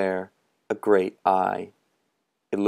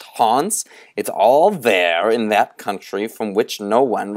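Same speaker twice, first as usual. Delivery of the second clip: put-on sinister old storyteller; 3 dB louder than usual. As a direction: lure the boys toward the dark. Moundshroud questions the boys.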